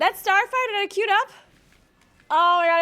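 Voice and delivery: high and loud exasperation; exasperated. Real, not acted. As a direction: groan at the lost chance. Frustrated after the wipe.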